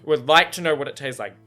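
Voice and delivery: laughing while talking. Real, not acted. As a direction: giggle through the words. Laughing about French toast.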